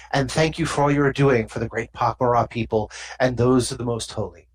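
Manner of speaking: low, formal alien diplomat. Acted. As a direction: speak as a solemn alien envoy. GM voices diplomat again.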